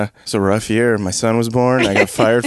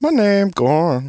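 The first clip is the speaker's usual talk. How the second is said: slow, higher, simple caveman-ish Gorn; 4 semitones higher, slower than usual. Pretend. Introducing his character Gorn to the hosts, slow simple voice. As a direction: speak slowly like a simple big brute. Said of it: "The character that I've been doing".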